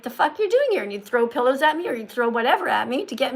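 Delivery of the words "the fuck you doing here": imitated snapping at an intruder, higher and louder; hammed-up annoyed yell; mock angry outburst. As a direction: pretend to be annoyed at someone barging in. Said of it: "you'd be like".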